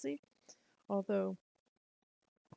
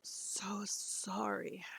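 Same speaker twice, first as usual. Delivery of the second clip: slow whisper through a yawn; much slower than usual. Real, not acted. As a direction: say it mid-yawn. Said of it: "I must yawn a lot".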